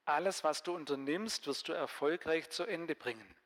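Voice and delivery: a lively Bible reading for a group; Bibelgeschichte vorlesen. Acted. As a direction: read the story out to the listeners. Reads the Bible story aloud. (lebhaft vorgelesene Bibelgeschichte)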